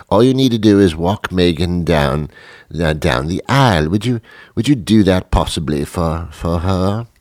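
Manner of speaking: coaxing British press secretary; hesitant British plea; British accent. Acted. Press secretary asks a favour for Meghan, British accent. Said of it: "had a British accent".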